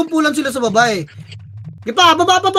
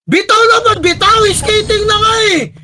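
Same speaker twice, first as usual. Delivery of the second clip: real rage at teammates who won't listen; furious yelling; 3 semitones higher than usual. Real, not acted. Raging at teammates ignoring calls. (galit na galit na sigaw)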